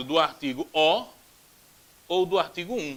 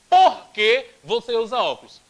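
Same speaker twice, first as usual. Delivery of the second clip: stretched question; 3 semitones higher, 8 dB louder than usual. Shown as a demonstration. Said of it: "um porquê que sai mais esticado".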